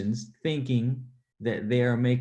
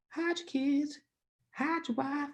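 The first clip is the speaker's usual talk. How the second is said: higher, frantic meme quote; 4 dB quieter than usual. Retold or imitated. Streamer riffs on a viral clip, frantic mock warning. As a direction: blurt it like the viral news clip.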